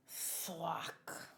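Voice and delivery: unvoiced whispered curse; shocked whisper. Real, not acted. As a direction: breathe the curse in disbelief. Shocked by manga reveal.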